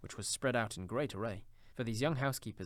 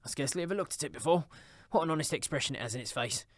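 a touch of gleeful admiration; slightly raised old Scrooge, marvelling; lightly voiced delighted Scrooge; 4 semitones higher, 4 dB louder, faster than usual. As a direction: admire it with mild, eager delight.

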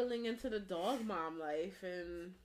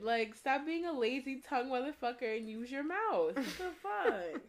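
exasperated rant; 4 semitones higher than usual. Acted. Mock rant about lazy tongues.

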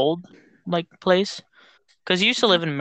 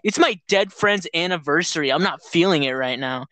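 mock pity plea. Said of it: "He's like".

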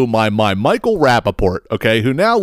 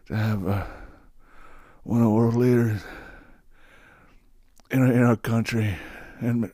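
put-on soft, halting old-man mumble with long pauses; quiet, faltering mock Biden speech; mumbling Biden impression; 5 semitones lower, 10 dB quieter than usual. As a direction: trail off and lose the thread like a doddering president. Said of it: "It's exactly what he sounded like".

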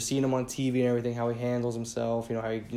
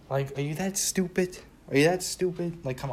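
high, incredulous angry jab; exasperated anger; 5 semitones higher than usual. Real, not acted. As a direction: demand it in disbelief, fed up. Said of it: "I'm just angry".

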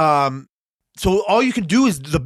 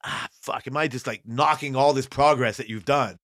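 whispered worry; 4 semitones lower, 5 dB quieter than usual. Retold or imitated. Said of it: "I'm told that's like".

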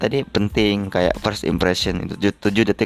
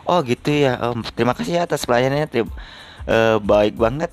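higher, mock-sweet gratitude; sarcastic thanks; 4 semitones higher than usual. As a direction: thank him with a sneer. Sarcastic thanks to rude guard.

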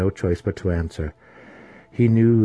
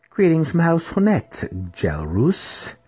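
imperious matron; 10 semitones higher, slower than usual. A narrator's reading. Matron greeting a returning house member, high and imperious. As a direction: pitch it high like a commanding matron.

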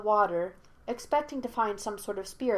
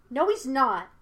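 put-on higher, louder boyish retort; contradicting in a boy's raised voice; arguing; 5 semitones higher, 6 dB louder than usual. A narrator's reading. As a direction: argue back sharply, pitch up. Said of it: "he argued".

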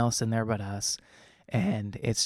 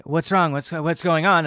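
mildly alarmed, higher-pitched questions; retold startled fear; 5 semitones higher, 4 dB louder than usual. Waking up scared beside his wife, mildly alarmed. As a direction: retell a disoriented, scared reaction. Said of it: "I'm really scared and very disoriented".

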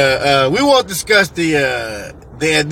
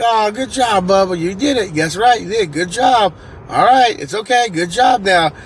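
higher-pitched fatherly praise; praising dad; 5 semitones higher than usual. Retold or imitated. Dad to winning son after the slide, acted reassuring praise. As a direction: imitate a dad soothing an excited kid.

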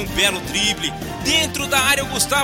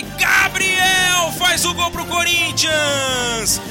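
excited goal call; 5 semitones higher, 3 dB louder, much slower than usual. Real, not acted. Repeating the scorer after the goal.

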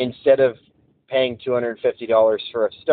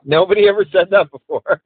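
higher, louder, punchier retake; emphatic redo; 8 semitones higher, 5 dB louder than usual. Acted. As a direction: say it again with more energy. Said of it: "that was miserable".

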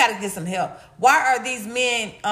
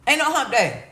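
higher, laughing retort at hump day; sassy retort; 3 semitones higher than usual. Retold or imitated. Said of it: "I said".

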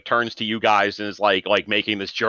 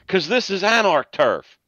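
Genghis; 9 semitones higher than usual. Acted. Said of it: "Genghis looks at you and goes".

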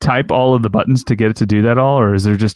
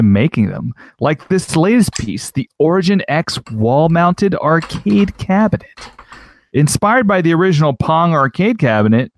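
switched-up reading voice; 4 semitones higher than usual. Pretend. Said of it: "I'll switch it up".

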